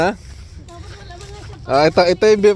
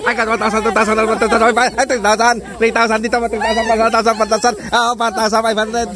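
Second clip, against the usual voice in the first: auctioneer; 4 semitones higher than usual. Pretend. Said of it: "May bidding, eh".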